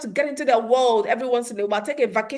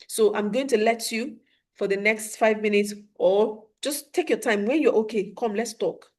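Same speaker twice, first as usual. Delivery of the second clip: calm reassurance; 3 semitones lower, 3 dB quieter than usual. Shown as a demonstration. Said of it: "So let them know".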